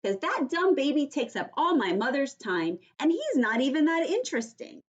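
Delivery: put-on high, loud little girl yelling for help; Junie B. yelling. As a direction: cry for help like a panicked kid. Junie complains about baby.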